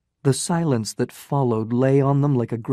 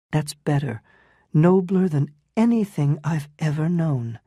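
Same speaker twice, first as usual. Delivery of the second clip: higher, tender woman's voice, resolute; a loving woman renouncing him, higher; Ellen's voice; 3 semitones higher than usual. Acted. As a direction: gently refuse him, voice raised in pitch.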